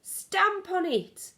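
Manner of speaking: high, loud, slow savage shout; furious shouting. Acted. Cooks trying to crush the mouse, slow loud shout. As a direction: bellow it, dragging the words. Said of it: "they were shouting".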